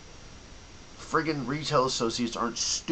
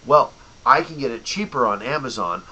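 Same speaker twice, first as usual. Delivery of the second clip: mock customer; 5 dB louder than usual. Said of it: "and then you go".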